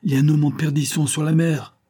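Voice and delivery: high, urgent plea from a winded priest; breathless cry. A narrator's reading. Priest breathlessly alerts the commander: urgent high cry. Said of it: "s'écria le prêtre essoufflé".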